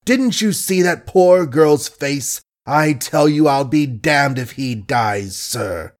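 thundering indignation. Acted. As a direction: drive each word home like an offended gentleman.

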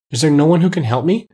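earnest appeal, voice lifted. A narrator's reading. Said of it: "asked Dorothy earnestly".

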